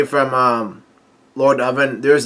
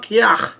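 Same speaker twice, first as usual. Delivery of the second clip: retold yelp; 7 semitones higher than usual. She cries out after being slapped, mock yelp. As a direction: imitate a slapped cry, half-hearted volume. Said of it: "yell out".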